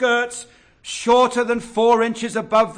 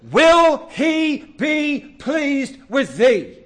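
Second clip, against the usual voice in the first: solemn prophet's question; 5 semitones higher, 4 dB louder, much slower than usual. Acted. Quoting Malachi solemnly.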